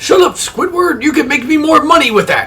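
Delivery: very high-pitched cartoon crab voice. Quoting cartoon lines for laughs, the speaker does a Mister Krabs voice. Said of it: "That almost sounds like the Battle for Bikini Bottom version of Mister Krabs".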